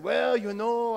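hammed-up Italian accent. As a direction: do your best Italian old-timer. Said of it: "do my best Italian accent".

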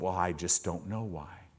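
soft, low, stammering I don't know; a cowed man mumbling his answer; timid stammer. Retold or imitated. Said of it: "Job answering".

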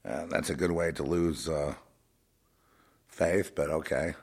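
soft, low dry remark; understated aside. Real, not acted. Commenting on the begging preachers, understated aside. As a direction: drop it softly as an aside. First of three escalating takes.

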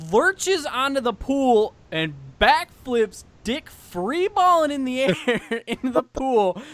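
high and loud, slowed for drama; hyped storyteller climax; excited retelling. Retold or imitated. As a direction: build the big moment up loud and slow.

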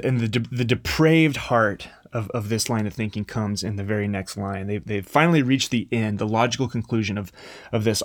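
normal talking voice

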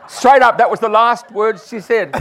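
loud, high, laughing slowly; laughing through words. Real, not acted. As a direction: speak while still cracking up. Still laughing at the memory.

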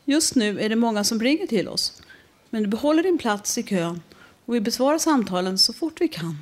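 lightly voiced recorded phone menu. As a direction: read it like a flat automated line. (lätt spelad telefonsvarare)

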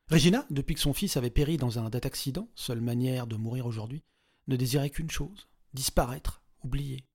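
ordinary delivery, nothing marked

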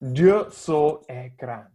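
self-mocking French accent on the quote; mock French accent, slowly; bad French accent. Shown as a demonstration. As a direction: say it in a deliberately clumsy French accent. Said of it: "in my worst French accent".

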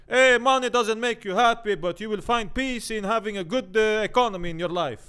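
loud, high English preaching voice; hammed-up pastor sermon to the crowd; American preacher. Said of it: "de här svarta som predikar".

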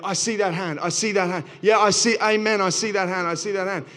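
lightly hammed-up preacher calling out hands; Pentecostal preacher.

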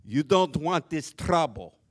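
low, loud mock Asian accent; stern movie-fighter line in a mock Asian accent. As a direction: put on a hammed-up Asian accent as a tough warning. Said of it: "in my best Asian accent and said".

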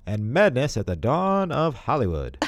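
a hint of an old-time movie announcer; lightly voiced vintage trailer narrator; old-timey Hollywood voice. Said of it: "do it in your old-timey Hollywood voice".

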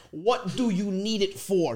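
measured WHAT DO YOU NEED IT FOR; slow, broken-down question. Retold or imitated. Son decoding dad's request, slow careful question. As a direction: spell out each word of WHAT DO YOU NEED IT FOR slowly. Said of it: "let's try to break it down".

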